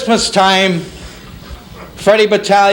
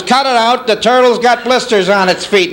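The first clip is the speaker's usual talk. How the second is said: lightly voiced indignant mom, higher pitch; a hint of a mother arguing with a manager; insistent mother; 4 semitones higher than usual. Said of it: "She says".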